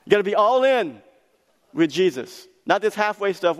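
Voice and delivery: high, loud urging; loud preacher call. Acted. Preacher pressing the congregation to go all in, loud and high. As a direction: drive it home to the crowd.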